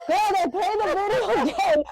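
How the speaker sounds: high, laughing through the words; laughing disbelief. Real, not acted. Speaker telling friend the video played again, laughing. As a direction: laugh as you tell it, can't believe it.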